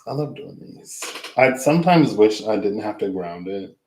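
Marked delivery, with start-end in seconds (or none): 0.1-1.0 soft breathy whisper, higher; whispered repeat. Real, not acted. Repeating her love for readings to viewers, whispered. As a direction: say it again as a secret whisper.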